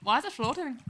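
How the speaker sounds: put-on rough stab at a Scottish accent; attempted Scottish accent. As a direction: sound it out in an unsure Scottish accent. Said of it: "phonetically sounding out a Scottish accent".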